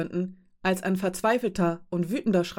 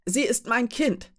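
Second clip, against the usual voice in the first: slow, higher, each word wrung out; anguished cry; 5 semitones higher than usual. Acted. Mother crying out to the captain about her child, anguished. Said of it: "schrie Uschenka".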